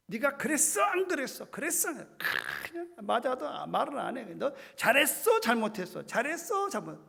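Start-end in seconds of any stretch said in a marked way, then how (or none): 0.1-2.2 scolding parent. Retold or imitated. 4.3-7.0 scolding parent. Retold or imitated.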